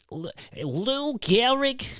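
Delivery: high, slow 1920s announcer voice; old-time announcer. Pretend. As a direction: stretch the name like a radio announcer. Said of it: "I was trying to say the last name in a way".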